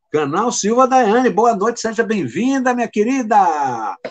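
a sunny hello to a newcomer; bright welcome. Real, not acted. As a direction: greet her warmly, lifting the voice. Welcoming the new viewer.

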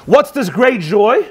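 slow, drawn-out indignant question; astounded, furious. Acted. Furious warden confronts the dancing prisoners, astounded. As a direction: demand it slowly, in mild outrage. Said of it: "He's astounded and he's furious".

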